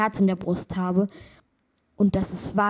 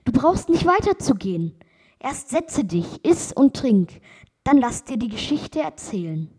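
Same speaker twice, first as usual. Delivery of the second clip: put-on higher, eager call to the young traveller; calling out eagerly; 4 semitones higher, 4 dB louder than usual. Bride urging the young traveller to sit and eat, higher and eager. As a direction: lift the voice and urge him to stay. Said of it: "rief die Braut".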